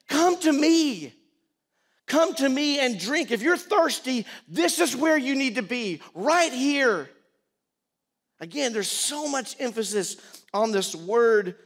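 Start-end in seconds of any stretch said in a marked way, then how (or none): 0.1-7.1 high, loud, urgent cry to a crowd; impassioned shouted invitation; pleading yell. Acted. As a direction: call them to you at the top of your lungs. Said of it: "yelling at the top of his lungs".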